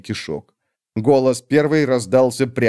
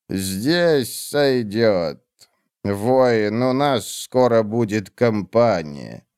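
cold witch; much slower than usual. Acted. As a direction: drag each word out, icy and dismissive. Olar Ethil speaks, slow.

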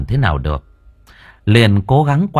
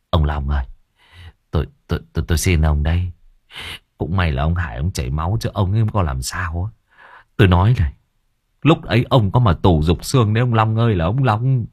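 low, pleading scold; exasperated master; 3 semitones lower than usual. Acted. Master scolding his clumsy servant, low exasperated.

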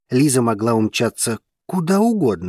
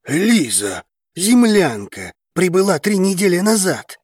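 menacing, higher and tense; threatening; 8 semitones higher than usual. A narrator's reading. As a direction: spit the words out as a threat. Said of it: "угрожающе выплюнул ящер".

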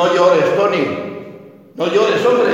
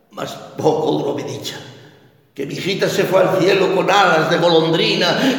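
usual speaking voice

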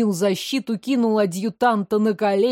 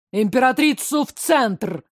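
barked order; 2 semitones higher than usual. Acted. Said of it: "рявкнул великий князь".

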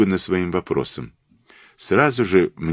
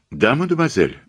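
gentle; 6 semitones higher than usual. A narrator's reading. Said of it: "мягко сказал Пуаро".

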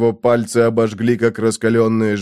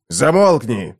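stern command; 2 semitones higher, slower than usual. Acted. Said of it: "строго приказал Паллантид".

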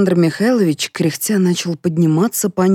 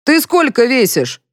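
raised, higher voice for the colonel; colonel's voice; 8 semitones higher, 4 dB louder than usual. A narrator's reading. Colonel quizzing the maid, in a raised voice. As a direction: pitch up as the colonel, brisk. Colonel asks maid's weight.

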